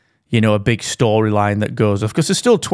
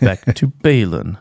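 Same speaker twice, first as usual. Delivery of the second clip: slow, lower put-on Emperor voice; Palpatine voice; 3 semitones lower, slower than usual. Emperor steering the chat back, slow and sinister. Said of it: "said Palpatine".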